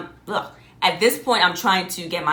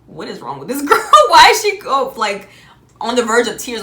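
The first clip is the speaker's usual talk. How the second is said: imagined callers; 4 semitones higher, 9 dB louder than usual. Retold or imitated. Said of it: "people are probably like on the other end".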